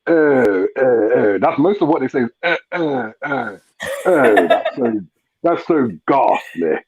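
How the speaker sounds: slow posh English lady; a prim posh Chelsea lady. Pretend. Posh English, performing a posh lady on request. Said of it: "That's how they speak".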